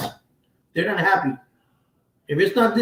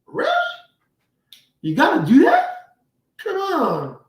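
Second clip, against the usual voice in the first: higher, whiny, disbelieving plea; mock exasperation; 12 semitones higher than usual. Parent mocking a kid who takes the phone everywhere, whiny exasperated. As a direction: groan it out like a fed-up parent. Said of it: "You're like".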